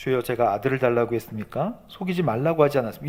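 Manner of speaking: calm, composed, soft and polite.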